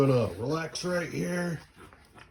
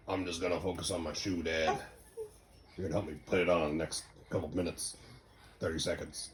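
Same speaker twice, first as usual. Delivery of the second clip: voicing toddler; 11 semitones lower, 9 dB quieter than usual. Dad voices toddler.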